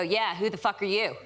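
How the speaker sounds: a touch of put-on tough talk; faking tough-girl attitude, half laughing; mock tough girl. Twelve-year-old acting tough for an older boy, mock tough. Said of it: "that's what I thought tough, cool girls did".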